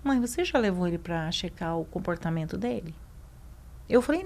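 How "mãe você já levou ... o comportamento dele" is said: mais baixo, imitando um médico atencioso; cuidadoso e carinhoso. Retold or imitated. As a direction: pergunte à mãe com delicadeza. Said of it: "com muito cuidado, muito carinho". (voz baixa, com cuidado e carinho)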